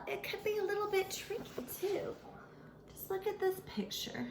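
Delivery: hushed confiding whisper. Acted. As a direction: lean in and whisper it. Showing a picture, confiding.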